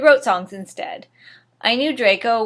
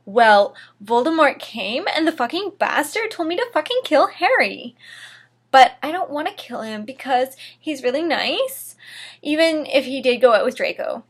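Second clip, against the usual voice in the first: upset; 3 semitones higher than usual. Acted. Distraught confession to friend.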